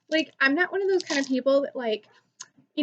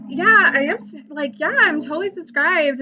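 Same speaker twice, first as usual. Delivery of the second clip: eager fan; 3 semitones higher, 5 dB louder than usual. Retold or imitated. Fan assuring the YouTuber he follows, mock eager. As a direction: imitate a keen subscriber.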